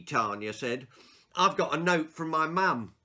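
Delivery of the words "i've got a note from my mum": smug excuse. Acted. Girl's cheeky excuse.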